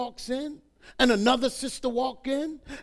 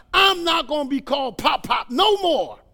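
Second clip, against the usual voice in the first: acted indignant refusal, louder and higher; indignant protest; 3 semitones higher, 6 dB louder than usual. Husband telling wife about his new name, indignant. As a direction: put your foot down, loud.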